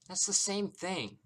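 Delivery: high, loud, drawn-out protest; exasperated shout. A narrator's reading. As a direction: shout it slowly in frustration. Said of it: "Celeste shouts and bangs her fists".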